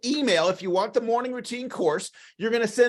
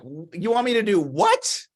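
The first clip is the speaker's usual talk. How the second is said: mock disbelief, voice jumping up on WHAT; incredulous. Listener baffled by a corny request, incredulous. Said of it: "You're gonna like".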